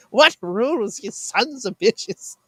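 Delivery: high-pitched, drawn-out indignant outburst; mock indignant, high and slow; Jordan Peterson. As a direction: impersonate an outraged speaker, stretching the words. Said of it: "it's just the way he says it".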